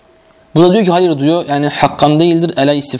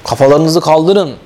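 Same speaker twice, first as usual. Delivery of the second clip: slow command; slower than usual. Real, not acted. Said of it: "Yani dikkat edin".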